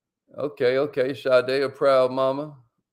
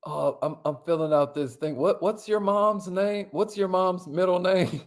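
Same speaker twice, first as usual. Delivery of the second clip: mock-innocent asking; 3 semitones higher than usual. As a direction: play busy filling out a form, asking innocently. Acts calm form-filler to de-escalate.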